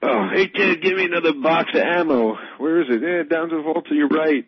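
high mocking voice. Voicing space crew banter.

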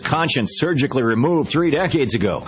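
punchy sales read with lively pitch swings; radio ad read. Acted. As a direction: sell it like a radio commercial. Recorded-style magazine ad read.

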